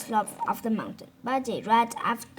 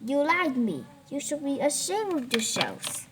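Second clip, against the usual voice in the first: raised, louder, higher scolding; angry scolding; 3 semitones higher, 4 dB louder than usual. Acted. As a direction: scold him like a disappointed master. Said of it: "The Tang Monk was angry".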